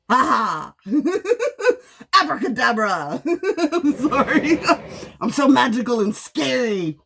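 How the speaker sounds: laughing through mock magic; laughing while mocking being called a witch; laughing sarcasm. Real, not acted. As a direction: cackle and wave it off.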